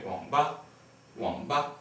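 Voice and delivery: wang nur tief, ohne Anstieg; half third tone. Shown as a demonstration. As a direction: wang ba, wang tief und kurz. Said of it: "usually not pronounced like wang".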